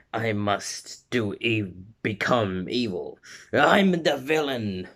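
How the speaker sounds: lightly hammed-up villain, slow and deliberate; slow evil declaration, swelling at the end; mock evil villain. Ida doing his evil thing, slow mock villain voice. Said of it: "like, evil thing".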